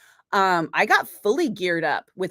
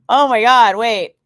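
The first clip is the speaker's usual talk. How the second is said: surprised; 4 semitones higher, 11 dB louder than usual. Real, not acted. Surprised reaction to chat.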